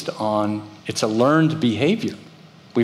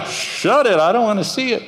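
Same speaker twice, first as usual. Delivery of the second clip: mock disgusted voice; 10 semitones higher than usual. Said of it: "everyone starts freaking out".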